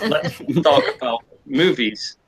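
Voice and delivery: slow, drawn-out change of topic; searching for words. Retold or imitated. Mate steering his date off feminism, searching for words. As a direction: imitate someone carefully groping for a subject. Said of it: "I can see him searching".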